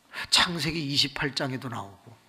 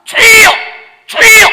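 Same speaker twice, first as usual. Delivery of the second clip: high, very loud cry of invocation; shouted prayer cry; 19 dB louder than usual. Shown as a demonstration. Believer crying to God, short high shouts. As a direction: call out like a needy child.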